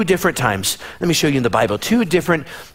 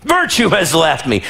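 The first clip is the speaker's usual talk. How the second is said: startled call; 3 semitones higher, slower than usual. Acted. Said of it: "Jesus stops and turns around".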